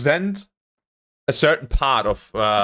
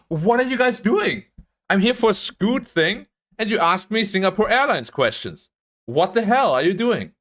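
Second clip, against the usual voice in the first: replaying his outrage at the examiners, pitched up; retold pissed rant; 5 semitones higher than usual. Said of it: "Do you know how pissed I was?".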